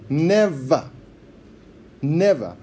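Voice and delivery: NEVER said alone, spaced by a pause; deliberate NEVER. Shown as a demonstration. Preacher showing the word is chosen deliberately, emphatic NEVER. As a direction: land each NEVER as a firm, separate word. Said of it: "the word is chosen s-, deliberately".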